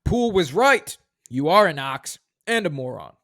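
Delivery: high opening, then the rest at normal pitch; repeated movie read. Shown as a demonstration. Host repeating the quote on request, high opening. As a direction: say it again as asked. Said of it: "Say that one more time".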